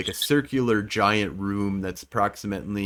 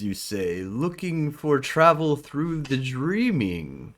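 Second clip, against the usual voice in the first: ancient rasping undead king; 4 semitones higher than usual. Acted. GM voices the woken creature.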